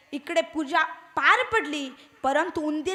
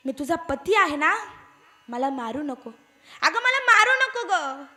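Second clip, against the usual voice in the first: mild mock-frightened cries of a mouse begging not to be beaten; a touch of panic, begging mouse; frightened pleading; 2 semitones lower than usual. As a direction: plead for your life, lightly acted and not too big. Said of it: "जीव घाबरत ओरडत होता".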